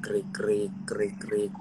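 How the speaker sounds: low, hushed cricket noise; imitated cricket chirps. Host waiting for lost connection, hushed cricket chirps. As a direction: mimic crickets in an awkward silence. Filling dead air while waiting.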